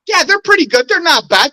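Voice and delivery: high-pitched, grudging concession; hedging praise. Real, not acted. Pressed to be honest about the other hosts, hedging praise.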